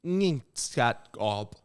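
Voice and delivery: fast choppy gibberish syllables; backwards speech. Shown as a demonstration. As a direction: rattle off reversed sounds quickly. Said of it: "I'm gonna go for a speed approach".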